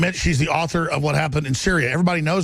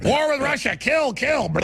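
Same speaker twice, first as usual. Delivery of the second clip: mock Hillary voice; 9 semitones higher, slower than usual. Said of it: "She's like".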